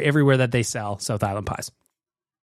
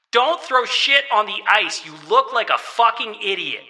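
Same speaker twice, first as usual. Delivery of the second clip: emphatic scolding; 4 semitones higher than usual. Real, not acted. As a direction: drive the point home word by word. Closing point of rant, repeated emphatically.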